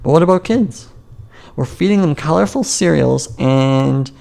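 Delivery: normal talking voice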